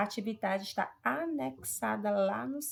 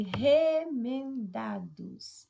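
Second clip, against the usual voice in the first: "remendados" very slow, with RE drawn out; stress on RE; 2 semitones higher, 4 dB louder, much slower than usual. Shown as a demonstration. Teacher checking the marked syllable, RE in "remendados" stressed. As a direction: stretch the opening RE of "remendados". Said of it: "o re como sílaba".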